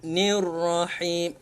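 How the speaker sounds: "Nir rahim" drawn out slowly; slow recitation. Shown as a demonstration. Teacher models the joined reading slowly. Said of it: "alif lam ni tidak dibaca".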